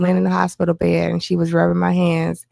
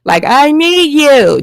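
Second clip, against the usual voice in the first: retold bawling; 2 semitones higher, 5 dB louder, slower than usual. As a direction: relive crying to your mother, drawn out. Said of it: "I got to bawling".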